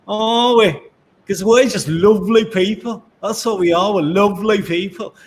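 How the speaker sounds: hammed-up Scottish lilt, pitched high; terrible Scottish accent. Presenter clowning through the sponsor plug, terrible Scottish accent. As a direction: put on a bad Braveheart-style Scottish accent. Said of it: "that's a terrible accent".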